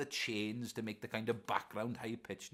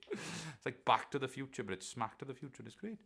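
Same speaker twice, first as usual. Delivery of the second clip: put-on Scottish accent. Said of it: "I went a bit Scottish there".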